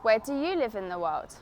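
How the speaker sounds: "Where do you live in the world?" falling at the end; falling open question. Shown as a demonstration. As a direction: let "world" drop down at the end. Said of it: "I go down at the end".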